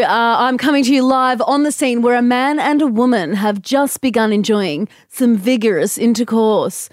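lightly done news reporter voice; newsreader voice. Pretend. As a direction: read it like a live field report. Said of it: "use your newsreader voice".

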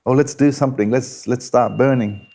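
lightly voiced eager youth; eager young man. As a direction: urge the elders on like an impatient youngster. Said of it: "I would just say to them".

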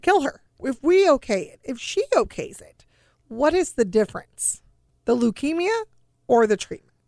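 a frustrated mother arguing for her daughter's treatment, voice climbing; retold desperate plea. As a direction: push back on the doctors, rising with each question. Retold pleading argument with doctors.

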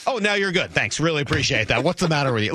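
high sarcastic scolding. Retold or imitated. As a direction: needle them sarcastically. Sarcastic fan to team.

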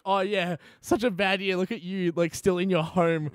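sarcastic "oh yeah, such a bad year"; mock sympathy, then a slow list. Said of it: "And I'm like".

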